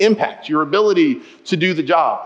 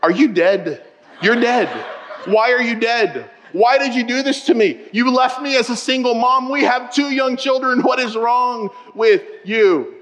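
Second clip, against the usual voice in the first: mock panic, laughing; 4 semitones higher than usual. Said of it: "it gets incredibly dark".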